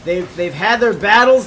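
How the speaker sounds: play-by-play. Acted. Live play-by-play casting.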